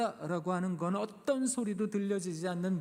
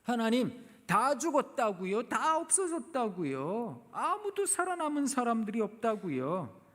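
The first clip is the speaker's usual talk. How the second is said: pleading lament; 5 semitones higher than usual. Acted. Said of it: "똑같이 하나님께 하소연했습니다".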